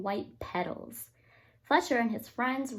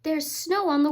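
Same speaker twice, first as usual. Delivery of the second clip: out of breath; 4 semitones higher, 6 dB louder than usual. Acted. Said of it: "panted Fletcher".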